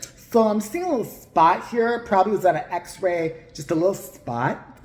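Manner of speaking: mock psychic, slow and drawn out; lightly mocking, drawling impression; imitating Tyler's talk. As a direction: stretch the words like a dithering medium. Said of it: "and that's how he talks".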